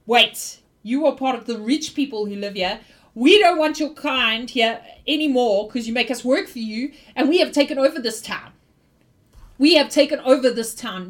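loud, forceful declaration; defiant rebel leader. Acted. Joe confronting the rich adventurer, loud and defiant. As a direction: announce the takeover with chest out. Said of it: "he says".

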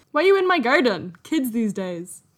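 a hint of a grumpy neighbour; mock annoyed homeowner. Homeowner telling kids off in the garden, mock annoyed.

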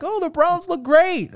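high, slow, sing-song mock praise; mocking fan voice. Mocking people who hype the Browns, high slow sneer. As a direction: ham up a gullible fan gushing. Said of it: "They're like".

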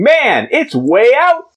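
high, slow excited shout. Acted. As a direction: shout it from the crowd.

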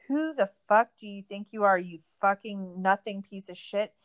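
imitating an angry rant that gets loud at the end; mock furious Tanya. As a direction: snap back like a cornered skater. Tanya snapping at Jeff.

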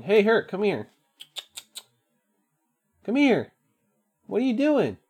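high-pitched cooing to a cat; pet talk. Real, not acted. Owner calls his meowing cat over, high pet voice.

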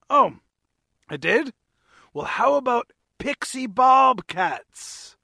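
hammed-up ad read in a vague French or British accent. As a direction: sell the cat show like a cheesy announcer with a vague French or British accent. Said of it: "Not sure what kind of accent this was".

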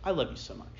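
put-on quiet and fond, to his little boy; tender. Father gently telling his son he loves him, quiet and tender. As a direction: reassure your son softly. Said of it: "And I said".

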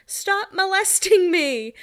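squeaky, drawn-out imitation of Lo; mock protest. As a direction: ham up a prissy brush-off. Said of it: "she says".

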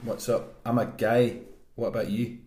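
understated mock-Scottish; put-on Scottish accent. Introducing himself by text, light Scottish accent. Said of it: "I'm gonna do Scottish for mine".

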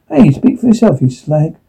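a touch of playful indignation; laughing retort. Acted. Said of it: "Kimberly snapped back, laughing".

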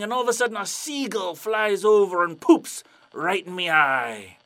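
loud sea dog spinning a yarn; hammed-up pirate storyteller. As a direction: build it up to a big, silly climax. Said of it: "And the pirate's like".

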